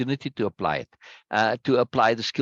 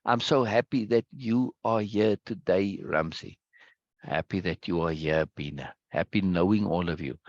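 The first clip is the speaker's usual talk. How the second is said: emphasizing joy. Shown as a demonstration. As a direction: linger gently over each person's welcome. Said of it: "I'm emphasizing the joy".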